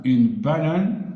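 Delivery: une banane said slowly, rising on banane; slow repeated word. Shown as a demonstration. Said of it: "mais on dit a banane".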